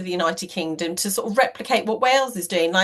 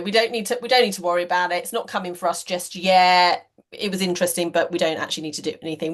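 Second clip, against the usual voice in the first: low, lightly put-on dodgy accent; dodgy non-Welsh accent; 4 semitones lower, faster than usual. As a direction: imitate a dismissive business in a mildly dodgy accent. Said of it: "they'll say it in that really dodgy type of accent".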